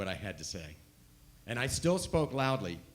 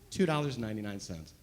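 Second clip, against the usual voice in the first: quick repeat; 2 semitones lower, faster than usual. Shown as a demonstration. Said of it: "mind you, two dollars and ninety-nine cents".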